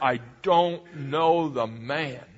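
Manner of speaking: slow, emphatic sworn denial; vehement denial. Acted. Scared Peter swearing he doesn't know Jesus, vehemently. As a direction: drag out each word with insistence. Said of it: "deny it as vehemently as he can".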